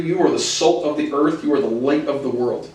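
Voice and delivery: emphasis landing on "salt" and "light"; stress on salt, light. Shown as a demonstration. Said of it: "Emphasis on salt and emphasis on light".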